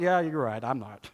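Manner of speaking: mock sheepish kid conceding; deflated admission. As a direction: voice sinking as the pretence collapses. Child drops the fake crying.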